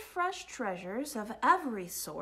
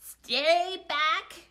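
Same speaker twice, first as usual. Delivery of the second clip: loud, raised-pitch warning; forceful storybook holler; warning shout; 5 semitones higher, 7 dB louder than usual. A narrator's reading. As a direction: shout to fend off a rival. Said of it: "shouted Bruce".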